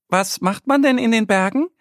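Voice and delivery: high, curious duckling voice; little duck asking. A narrator's reading. Annie the duck asks Mo about the mountains, high and curious. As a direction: ask with wide-eyed wonder. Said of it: "fragt sie ihn".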